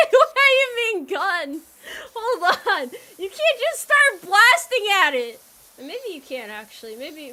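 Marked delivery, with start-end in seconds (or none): 0.1-5.4 loud, high laugh-cracked protest, much higher; half-laughing outcry of disbelief. Real, not acted. Streamer laughing in disbelief at chat's gun suggestion, loud and high.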